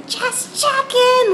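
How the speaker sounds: put-on very high, slow, drawn-out old-lady voice; high-pitched Russian Jewish grandmother calling across the street. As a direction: stretch it out high and loud like a nosy grandmother. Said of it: "she had this really high-pitched Russian Jewish accent".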